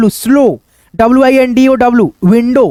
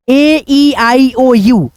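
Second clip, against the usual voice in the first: slow vowel list; much slower than usual. Shown as a demonstration. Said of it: "teacher lists vowels slowly".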